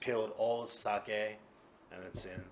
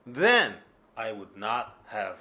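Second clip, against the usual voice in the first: indignant; 9 dB louder than usual. Acted. Drunk Kuma blaming Tora-san.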